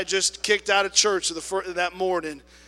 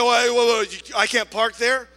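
loud, higher indignant protest; indignant challenge; 5 semitones higher, 8 dB louder than usual. Retold or imitated. Lady indignantly protests to the attendant. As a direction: bristle at being told off.

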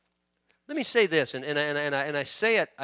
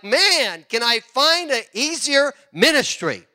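high, slow mock lament; weary complaint; 7 semitones higher, slower than usual. A tired church worker, mock complaining. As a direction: sigh for an easier job. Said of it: "it's like".

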